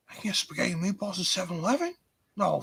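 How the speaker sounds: high, very fast excited; hammed-up wonder; mock amazement. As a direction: gush in disbelief. Excited put-on voice.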